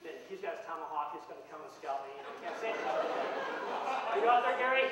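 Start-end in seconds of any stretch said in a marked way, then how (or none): 2.9-4.9 slow, loud call into the crowd. Real, not acted. Speaker calling to his friend Gary in the audience, a slow loud call. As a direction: stretch it out, calling across the hall.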